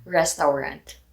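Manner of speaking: Restaurant with the final T dropped; Filipino accent. Shown as a demonstration. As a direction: say Restaurant without the T. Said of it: "I will say the Filipino accent for it".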